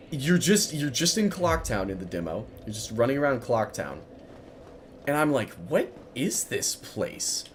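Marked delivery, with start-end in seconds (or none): 5.7-7.4 slow hushed whisper; whispered wonder. Retold or imitated. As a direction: breathe it out in awe. Retold wonder in Clocktown.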